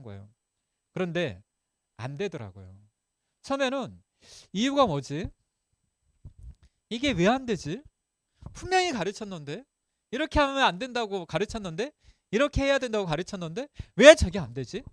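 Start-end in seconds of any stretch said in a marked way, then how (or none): 4.5-14.8 higher-pitched, puzzled musing; acted-out bewilderment, thinking to oneself; baffled self-questioning. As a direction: wonder aloud in disbelief at why it fails. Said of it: "처음에는 이해가 안 된 거예요".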